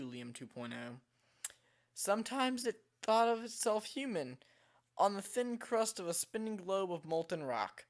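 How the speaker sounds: measured reading with a slight British lilt; storybook narration, faintly British; light British accent. Real, not acted. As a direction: read it out with a hint of a British accent. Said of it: "weird British accent when I read these".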